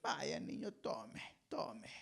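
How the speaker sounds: soft, low pleading mom; soft giving in. Retold or imitated. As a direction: hush the child, handing it over. Mamá cediendo al niño. (mamá cediendo, voz baja y suave)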